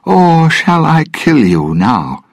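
put-on high, loud, slow drunken threat; threatening. Norrington threatening Jack with his gun, loud angry yell.

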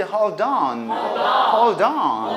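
"Hold on" run together as one word; "Hold on" as hol-don, stretched out; linked pronunciation. Shown as a demonstration. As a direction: link the d of "Hold" into "on". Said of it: "이렇게 연음이 되지?".

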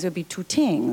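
"tings" with a hard t, no th; Irish "tings" with a plain t sound; Limerick th as t. Retold or imitated. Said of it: "their T Hs are pronounced like Ts".

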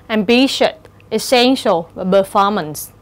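ambitious, essential, performance weighted on BI, SEN, FOR; second-syllable stress. Shown as a demonstration. Teacher lists examples, ambitious, essential, performance stressed on syllable two. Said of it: "nhấn ở âm tiết thứ hai".

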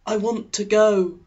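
forced cheer. A narrator's reading. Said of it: "I lied".

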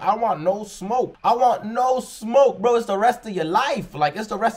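high, slow begging plea; pleading high voice. Retold or imitated. Reactor begging to avoid beef, in a slow high pleading voice.

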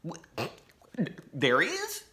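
a hint of a startled old sheriff; timid sheriff dad. A narrator's reading. Laura's dad hears the news, lightly startled. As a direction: caught off guard.

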